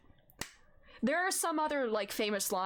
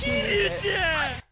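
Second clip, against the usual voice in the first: loud, high, drawn-out exclamation; teasing yell; joking outburst; 8 semitones higher, 8 dB louder, much slower than usual. Real, not acted. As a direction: burst out with it, stretching each word. Joking outburst about the flirty character.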